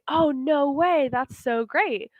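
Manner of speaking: lightly acted delight, drawn out at the end; delighted disbelief. Teacher voices a friend hearing good news, delighted disbelief. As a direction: react to wonderful news. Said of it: "It's kind of like saying".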